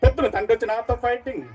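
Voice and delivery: a hint of an angry father from a film; Prakash Raj mimicry. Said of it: "Prakash Raju".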